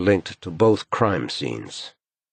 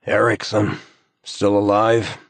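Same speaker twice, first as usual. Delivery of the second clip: joking; 4 semitones higher, 3 dB louder than usual. A narrator's reading. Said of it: "jokes Yona".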